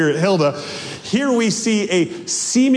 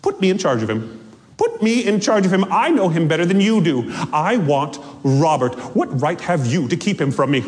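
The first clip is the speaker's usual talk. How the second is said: worked-up demand; faster than usual. Acted. Ghost wife demanding Hilda hand over Robert, increasingly worked up. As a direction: start contained, then press the demand harder. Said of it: "She's just, like, so worked up".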